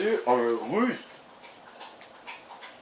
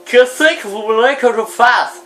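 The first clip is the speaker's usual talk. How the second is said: exaspéré; 7 semitones higher, 4 dB louder than usual. Real, not acted. Exaspéré, plus fort, plus aigu.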